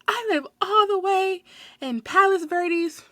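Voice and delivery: high, drawn-out mock-tearful whine; imitated cracking voice. Customer pleading she lives far away, imitated cracking voice. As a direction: mimic a customer near tears, stretching words. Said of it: "I hear her voice cracking".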